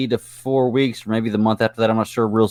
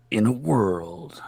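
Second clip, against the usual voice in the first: slow, soft movie trailer voice; hushed, slow "In a world"; sultry trailer voice; 6 dB quieter, much slower than usual. Shown as a demonstration. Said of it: "sultry voice. I wanna try it".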